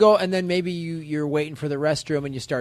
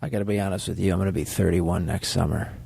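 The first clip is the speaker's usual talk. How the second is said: low smooth flirt; 10 semitones lower than usual. Acted. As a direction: drop low and lean in. Pilot flirting back.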